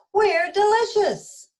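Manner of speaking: proud shout. Acted. Donuts shouting back.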